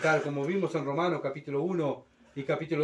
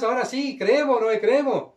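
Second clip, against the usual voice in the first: desperate pleading; 8 semitones higher, 6 dB louder than usual. Pretend. Drowning crowd begs Noah too late.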